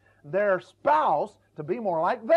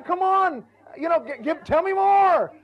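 much higher and louder, pleading wife; a wife pressing her husband for details, much higher and louder; imitated wife; 9 semitones higher, 6 dB louder than usual. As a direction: beg for more detail like a frustrated wife. Frustrated wife voiced.

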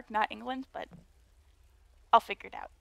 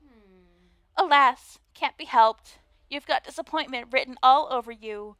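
put-on Valley Girl voice; 6 dB louder than usual. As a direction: play the snooty mean girl, Valley Girl style. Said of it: "a Valley Girl voice".

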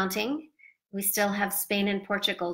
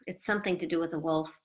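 ordinary delivery

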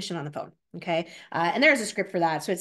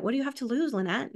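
higher, sweet and charming, rising on "lose"; loving, charming; 4 semitones higher than usual. Shown as a demonstration. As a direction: coax it lovingly, with a lift on "lose". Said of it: "I could say that in a loving, charming way".

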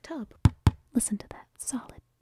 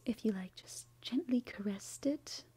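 whispering; 4 dB quieter than usual. Real, not acted. Late night whispering.

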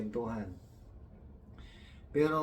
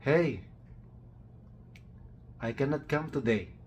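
1 mock foreigner English; 4 semitones higher than usual. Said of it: "sabi nga nun, nung puti".

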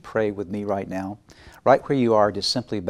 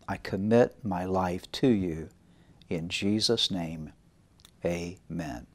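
prayer. Acted. Leads prayer.

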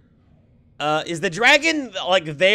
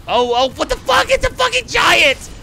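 much higher, stunned yelp; shocked disbelief; 12 semitones higher, 4 dB louder than usual. Real, not acted. Gamer sees a giant appear, much higher in shock.

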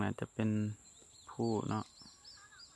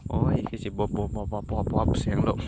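laughing; 3 dB louder than usual. Real, not acted. Laughing at the roaring wind.

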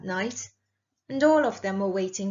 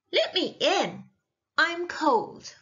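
higher-pitched plea at a door; pleading princess; 6 semitones higher, slower than usual. A narrator's reading. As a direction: plead to be let inside.

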